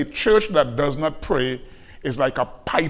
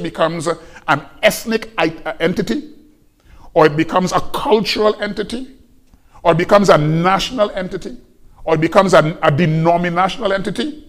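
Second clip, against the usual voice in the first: rising, louder with each item; preacher building to a peak; building preaching; 3 semitones higher, 5 dB louder than usual. Real, not acted. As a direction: climb in force through the list.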